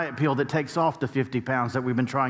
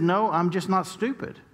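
blunt retort; 6 semitones higher than usual. Retold or imitated. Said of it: "That's how he says things".

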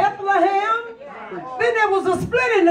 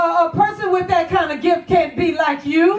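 full-force preaching; 3 semitones higher than usual. Acted. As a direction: drive each "can't" home, gaining speed. Preaching builds over repeated lines.

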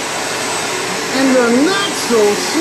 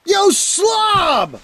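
calling out; 4 semitones higher than usual. Acted. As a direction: shout at him from afar. Calling out to intruder.

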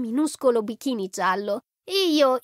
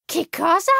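strillo accennato; 6 semitones higher than usual. A narrator's reading. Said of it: "strillò lei".

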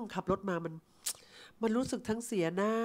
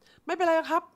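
slow, high, polite brush-off; polite refusal; 9 semitones higher, 6 dB louder, slower than usual. Retold or imitated. Young customer politely declining the car chat, high and slow. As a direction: decline gently but firmly, drawn out.

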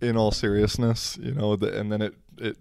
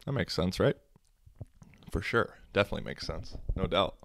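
sarcastic; 5 dB quieter, faster than usual. Acted. Mock agreement after absurd stat.

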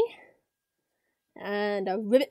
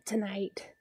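whispering; 3 semitones lower, 7 dB quieter than usual. Pretend. Lulling the listener to sleep.

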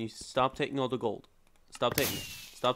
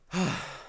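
sigh; 6 semitones higher than usual. Real, not acted. Readying to tell a joke.

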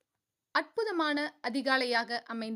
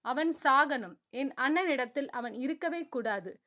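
vengeful. Acted. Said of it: "மனதில் வன்மமாக நினைத்து".

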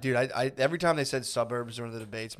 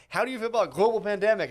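high, louder spooky Biden pitch; mock Biden; 7 semitones higher, 6 dB louder than usual. Friend mocking Biden's pitch, hammed-up spooky. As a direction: sell the pandemic like a campfire ghost story. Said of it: "Biden was like".

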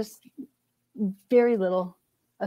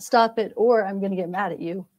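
louder, irritated warning; mock angry threat; 6 dB louder than usual. Shown as a demonstration. Not how the angel tells Alma, a loud threat. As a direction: snap it like a fed-up parent. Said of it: "And not".

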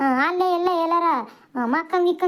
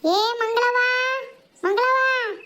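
drawn-out neighbour call; raised calling voice; calling louder; 3 semitones higher, slower than usual. Acted. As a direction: call out to someone indoors. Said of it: "ಒಂದ್ ಇಟ್ ಜೋರ ಕೂಗು".

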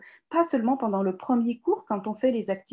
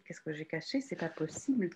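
"Qu'est-ce que j'ai caché?" muttered much softer and lower; wondering under her breath, half to herself; muttering to herself; 6 semitones lower, 12 dB quieter than usual. Real, not acted.

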